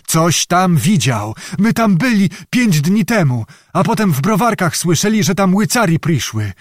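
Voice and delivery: put-on high, anxious old peasant voice; old beggar confessing. Old beggar talks to escape hanging, high-voiced and anxious. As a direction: give up the story under threat.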